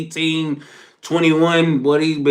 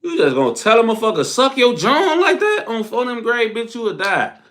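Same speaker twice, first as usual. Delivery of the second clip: rising, fast, higher-pitched disbelief; mock outrage; 6 semitones higher than usual. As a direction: fire off an indignant question, pitch climbing. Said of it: "They aggressive as hell".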